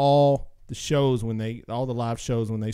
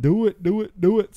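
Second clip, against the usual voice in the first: loud urging; 6 semitones higher, 5 dB louder than usual. Real, not acted. Urging listeners to donate.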